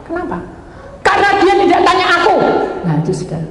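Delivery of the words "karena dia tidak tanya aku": voice of God. Retold or imitated. God answers in retold prayer.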